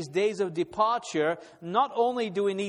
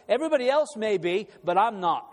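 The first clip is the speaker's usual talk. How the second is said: louder, emphatic voicing of personal resolve; quick, raised, determined declaration; firm resolve; 4 semitones higher, 4 dB louder, faster than usual. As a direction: state it firmly, set apart from the crowd. Voicing Daniel's resolve against the crowd.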